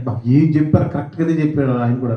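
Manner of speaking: retelling mom's words through a laugh; chuckling as she reports it; mother laughing. Retold or imitated. Voicing his mother as she laughs about the doctor. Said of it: "అని నవ్వింది first".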